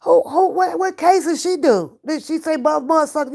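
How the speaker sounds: high, laughing voice as partner; quoting partner laughing. Retold or imitated. Imitating partner, amused at the cussing. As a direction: laugh through partner's question. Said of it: "He said".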